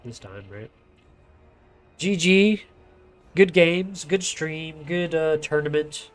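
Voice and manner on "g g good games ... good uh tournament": bright cheer, higher and louder; excited. Real, not acted. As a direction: call out GG with delight. Caster cheering the match's end.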